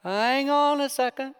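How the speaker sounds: a baffled king losing count; hammed-up befuddled king; the king, confused. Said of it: "the king turns and says".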